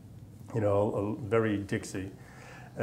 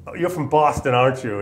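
hint of a Southern drill sergeant, louder; 3 semitones higher, 6 dB louder than usual. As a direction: needle the recruit like a rough Southern sergeant. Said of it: "is real Southern, real hardcore, gravelly voice, loud".

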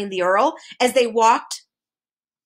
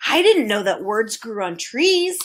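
mildly timid little admission; understated shy voice. A narrator's reading. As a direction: venture it hesitantly. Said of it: "said Milo timidly".

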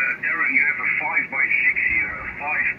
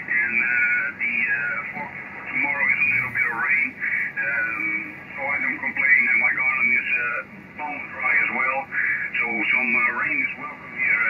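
crackly military radio. Real, not acted. Received over CB radio.

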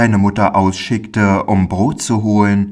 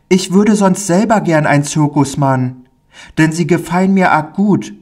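put-on high child voice, rushing then dropping into fear; a small boy dreaming of the circus, then remembering his dread; eager little boy; 7 semitones higher than usual. Pauli tells the stranger about the circus in a high, eager child voice.

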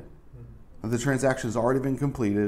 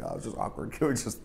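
awkward whisper; 7 dB quieter than usual. Retold or imitated. Acted awkward aside.

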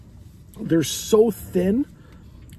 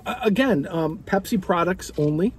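chewing while talking; reaching for drink mid-sentence; mouth full. Real, not acted. Seen 2: Chewing burger while speaking; cup reaches mouth only at the end.

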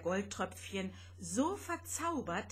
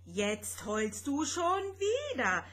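rasping retort; 5 semitones higher than usual. Acted. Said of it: "schnarrte Vanya".

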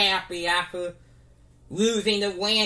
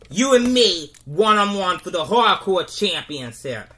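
challenge shout; 4 dB louder than usual. Pretend. Rey challenges Sami to a match, loud. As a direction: throw down the gauntlet.

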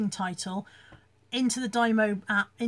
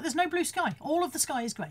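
higher-pitched, bickering contradiction; insistent retort, pitched up; retold exasperated insistence; 5 semitones higher than usual. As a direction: argue back as if with your mother. Retold argument with mother.

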